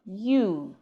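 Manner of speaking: drawn-out "you", y sound up front; contrast-word demo. Shown as a demonstration. Teacher modelling the first word for students, clearly articulated. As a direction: say "you" with a clear y glide, long oo. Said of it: "the first word we have".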